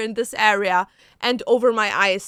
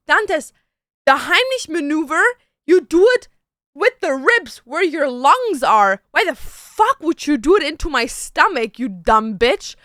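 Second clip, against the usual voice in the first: retold rant, a bit louder and pushed; mock angry scolding; 3 dB louder than usual. Telling off Dantes for punching her stomach, mild angry rant. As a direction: scold him like he's an idiot, half-acted. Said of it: "So now I'm pissed off".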